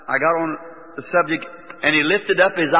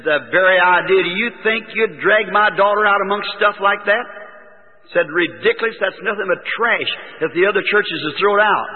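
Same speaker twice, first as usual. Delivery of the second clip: indignant scolding; 3 semitones higher than usual. Retold or imitated. Mother-in-law forbids and scolds.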